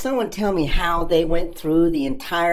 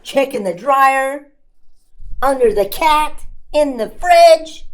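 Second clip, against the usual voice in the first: frantic; 4 semitones higher than usual. Acted. Frantic search.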